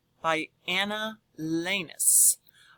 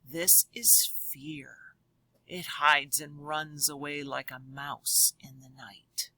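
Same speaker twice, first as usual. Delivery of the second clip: scared whisper; 4 semitones lower, 5 dB quieter than usual. Acted. Page about fear.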